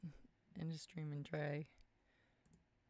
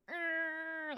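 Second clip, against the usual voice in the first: imitated audio glitch; 9 semitones higher, 6 dB louder than usual. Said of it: "it's not gonna go".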